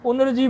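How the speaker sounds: उनर्जी as un-r-ji; n before r. Shown as a demonstration. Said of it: "रेफ का नकार के बाद करना". (उनर्जी में रेफ नकार के बाद)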